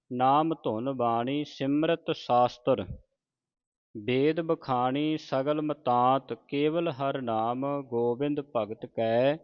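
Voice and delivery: slow, measured sacred reading; deliberate Gurbani recitation for learners; scripture recitation. Acted. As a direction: recite phrase by phrase, stretching the vowels.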